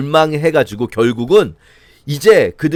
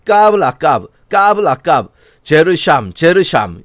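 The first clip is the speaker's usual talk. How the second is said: louder taunting nonsense chant; preacher voicing the leaders' taunt, louder and mocking; mocking singsong; 4 dB louder than usual. Shown as a demonstration. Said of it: "이게 비꼬는 말이에요".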